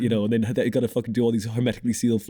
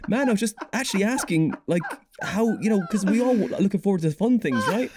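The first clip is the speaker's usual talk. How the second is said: exasperated pleading; 8 semitones higher than usual. Retold or imitated. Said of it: "and I was like".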